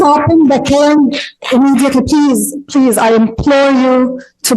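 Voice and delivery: real heartfelt appeal; urgent pleading. Real, not acted. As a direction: plead urgently before being cut off. Pleading as time runs out.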